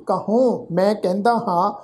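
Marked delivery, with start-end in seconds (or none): 0.1-0.7 ਕਹੂੰ with a nasal final ੂੰ, kahoon through the nose; nasal pronunciation. Shown as a demonstration. Teacher shows the sangat the nasal ਕਹੂੰ, nasal final vowel. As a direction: let ਕਹੂੰ ring nasally on the last vowel. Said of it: "ਨਾਸਕੀ tone ਵਿੱਚ".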